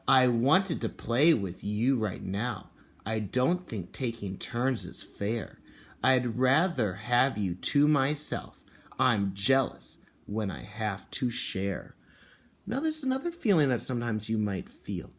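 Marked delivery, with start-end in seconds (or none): 0.1-12.0 slow storybook read with a hint of sulky jealousy; a touch of jealous child in a read-aloud; reading to children. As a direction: read it slowly, lightly jealous. Reads picture book aloud.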